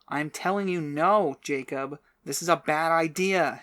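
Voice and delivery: loud, high scolding. A narrator's reading. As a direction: scold him sharply. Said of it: "she scolded".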